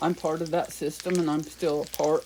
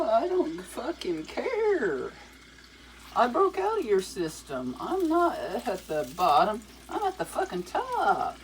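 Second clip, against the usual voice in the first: mock rapper boast; 5 semitones higher than usual.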